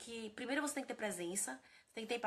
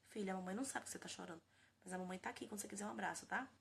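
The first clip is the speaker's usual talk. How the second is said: gentle reassurance; 6 dB quieter than usual. Retold or imitated. Mother soothing her crying daughter, softly reassuring. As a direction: hush it down and stay close. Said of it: "ela fala".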